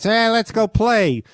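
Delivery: quoted invitation. Retold or imitated. Quoting Norm's eager invitation.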